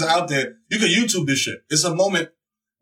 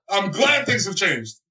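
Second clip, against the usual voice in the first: slower; slower than usual. Real, not acted. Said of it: "See, I'm glad things have changed".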